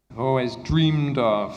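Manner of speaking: each word laid out slowly; slow model chunk. Shown as a demonstration. Teacher slowly modelling "I've always dreamed of" for students. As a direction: spell out the chunk for the class. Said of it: "teacher models chunk slowly".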